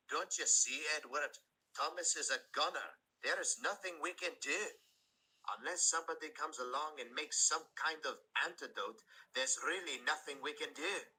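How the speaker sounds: Scottish engine insisting nothing can be done; despairing Scottish engine. Acted. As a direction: press the hopeless point, Scottish. Douglas arguing with Edward.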